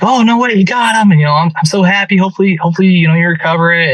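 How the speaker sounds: lightly acted thrilled reaction; imitated excited wife. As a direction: voice the wife's delighted surprise. Retelling wife's delighted reaction on phone.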